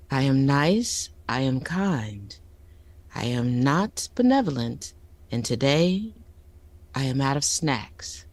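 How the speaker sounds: low, slow, deliberate threat; playful low-pitched menacing introduction; mock villain menace. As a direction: greet them like a villain about to pounce. Mock-menacing villain greeting to audience.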